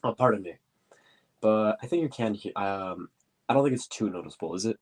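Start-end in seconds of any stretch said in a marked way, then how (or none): 0.0-0.5 blocked nose, clearing throat; stuffy nose. Real, not acted. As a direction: talk through a stuffy nose. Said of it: "I'm a little stuffy right now".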